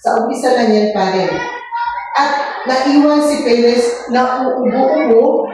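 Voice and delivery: masiglang pagbabasa ng kuwento sa mga bata; pagbasa ng kwento. A narrator's reading. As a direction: basahin nang malinaw at buhay, parang guro sa klase. (guro na nagbabasa ng kuwento sa mga bata, masigla)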